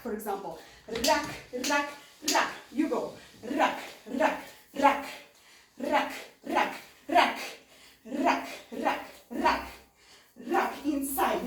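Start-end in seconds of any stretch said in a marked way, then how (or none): 1.1-2.5 RACK as short, separate accent hits; musical accents. Shown as a demonstration. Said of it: "like accents in the music". 3.6-9.7 RACK as short, separate accent hits; musical accents. Shown as a demonstration. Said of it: "like accents in the music".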